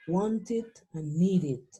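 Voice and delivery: slow "wanted" and "needed", both ending in "id". Shown as a demonstration. Teacher recaps the sounds, "wanted" and "needed" ending in "id". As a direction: say "wanted" as "won-tid", "needed" as "nee-did". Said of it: "estos sonidos".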